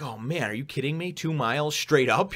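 staring up at a huge cliff, in hammed-up disbelief; mock disbelief. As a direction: gawk at the cliff in exaggerated disbelief. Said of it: "and I'm like".

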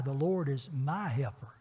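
"my" leaned on, slow and deliberate; slow reading that lands on "my"; stress on MY. Shown as a demonstration. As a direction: press the word "my" in "The Lord is my helper". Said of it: "and I like to emphasize in the word "my".

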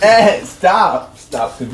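laughing, loud pleading stops; being tickled. Real, not acted. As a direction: beg through laughter while tickled.

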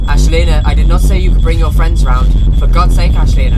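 yelling at her in exasperation; furious parent yell; loud scolding. Real, not acted. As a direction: shout her down. Yelling at character in game.

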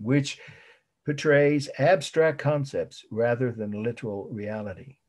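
measured repeat for note-takers; dictation. Real, not acted. Teacher repeating the definition for students, dictation. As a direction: dictate it evenly, with each phrase set apart.

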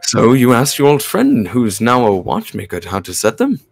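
measured, composed character reading; careful, articulated story-reading delivery; game dialogue read-aloud. Acted. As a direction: voice the lines as a patient mentor. Reads game character's lines.

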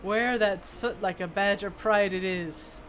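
lightly voiced dwarf smith, matter-of-fact; a hint of a kindly craftsman handing over work; dwarf smith character.

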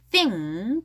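"thing" with a clear th; TH sound. Shown as a demonstration. Teacher showing the sound, th marked in "thing". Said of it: "티에이치 발음".

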